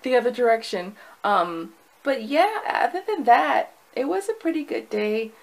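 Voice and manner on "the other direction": tempted retreat. Retold or imitated. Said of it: "I was just like".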